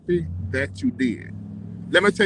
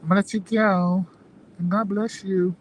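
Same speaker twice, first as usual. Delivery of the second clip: put-on white girl voice. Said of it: "This is my, my white girl voice".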